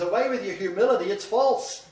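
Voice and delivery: fast, high brushing-off; God dismissing humility. Retold or imitated. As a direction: sweep their humility away. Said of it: "And God says".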